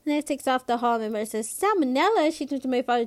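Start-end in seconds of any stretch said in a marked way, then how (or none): 1.5-2.3 alarmed surprise. A narrator's reading. Mother alarmed by the word.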